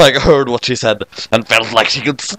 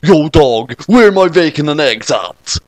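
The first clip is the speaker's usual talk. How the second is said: a hint of a tough street accent; girl waking in a new street accent; 2 semitones higher, slower than usual. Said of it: "another new accent".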